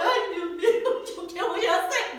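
high, loud, slow imitated bawling; hammed-up wail with laughter in it; crying wail. Lost woman cries to God before the old man, crying wail. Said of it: "y yo lloré".

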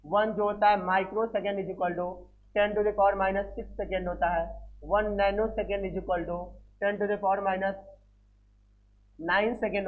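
slow, word by word, for students to write down; slow dictation. Shown as a demonstration. Teacher dictating unit values to students, slow and deliberate. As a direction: dictate each word slowly and clearly. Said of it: "देखो ध्यान देना".

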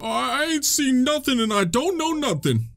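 lightly voiced nervous denial; hiding character's denial. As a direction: play the scared character insisting he saw nothing.

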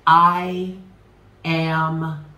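very slow, spaced-out mantra; led affirmation. Shown as a demonstration. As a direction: draw out every word for others to join in. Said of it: "I want you to say it with me".

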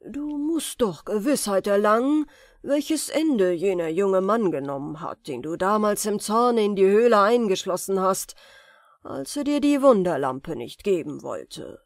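lauter, finsterer Zauberer im Selbstgespräch; grübelnder Zauberer. Acted. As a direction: der Zauberer schmiedet Pläne. (Zauberer denkt an Aladin, düster und lauter)

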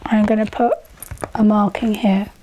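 behind clear plastic face shield; through a cup mask. Real, not acted. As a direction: mouth covered by plastic cup. Seen 1: Clear cup sits over nose and mouth under a face shield throughout.

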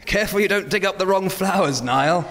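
high, lightly voiced old man. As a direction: fuss like a fretful pensioner. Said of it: "sound older in our voices".

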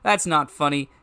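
loud, hammy comedian father voice; forced stage laugh, then emphatic self-reproach; Mayor Quimby. Acted. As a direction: declaim it like a cartoon politician confessing onstage. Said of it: "You sound like Mayor Quimby from The Simpsons".

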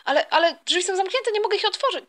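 high-pitched, flustered stammer; acted panic. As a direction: report the snag in high-voiced alarm. Finds school doors locked, no time.

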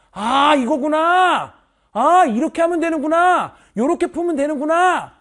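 loud, slow, delighted aha; slow and loud, a student's happy discovery; excited realization. Acted. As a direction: act out the student finally getting it, loudly. Acting a student's eureka moment.

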